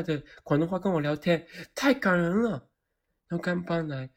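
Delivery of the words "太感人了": gushing. Real, not acted. Moved by the boss lady.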